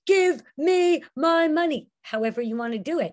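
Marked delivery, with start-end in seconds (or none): 0.1-1.9 higher, louder demand; Mister Green loudly demanding his money; strong loud voice. Shown as a demonstration. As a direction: say it in a big strong voice. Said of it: "in a very strong voice or in a very loud voice".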